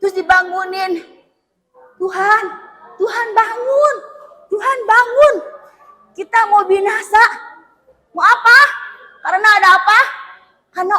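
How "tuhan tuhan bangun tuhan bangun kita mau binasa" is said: urgent wake-up plea. Acted. Disciples wake the Lord.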